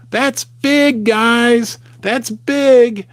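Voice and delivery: eager hype to viewers; excited emphasis. Real, not acted. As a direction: sell it like big news. Stressing gold at all-time high.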